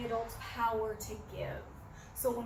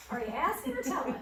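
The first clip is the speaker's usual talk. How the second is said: Karen Purvis southern drawl; 4 semitones higher, 4 dB louder than usual. Retold or imitated. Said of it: "imagine Karen Purvis saying that in her southern drawl".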